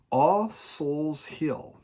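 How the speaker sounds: each word drawn out slowly; slow title announcement. Shown as a demonstration. Announcing the record to viewers, drawn out slowly. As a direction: savor the album title, slow. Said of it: "This is it".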